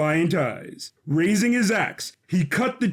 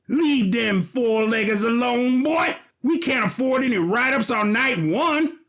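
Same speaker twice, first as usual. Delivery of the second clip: stern shout; 6 semitones higher than usual. Acted. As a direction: rein him in with a sharp yell. Walter scolding eager brother.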